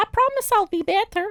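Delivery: put-on very high-pitched, pleading, begging little boy voice. Describing a man's voices, the speaker acts out him begging in a little boy voice. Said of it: "Little boy voice".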